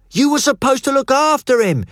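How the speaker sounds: furious roar, high and loud. Acted. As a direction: roar it at him in blame. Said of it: "Hugo roared at Felpy".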